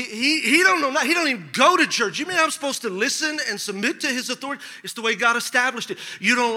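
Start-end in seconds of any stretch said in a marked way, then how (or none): 0.0-4.6 mock protest, pitched up; indignant objection. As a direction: imitate a spouse balking at the idea. Acted spouse objecting to submission.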